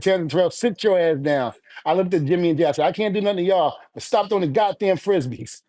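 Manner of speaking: mock stern dad scolding. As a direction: tell them off, half joking. Scolding kids in retold story.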